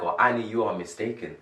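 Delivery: 1 gentle correction. Shown as a demonstration. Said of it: "that sounds different".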